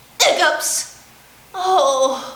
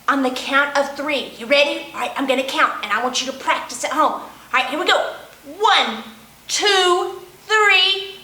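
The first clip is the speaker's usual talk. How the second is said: little penguin voice. Acted. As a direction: play the hiccuping little penguin talking to the kids. Librarian voices Little Penguin throughout.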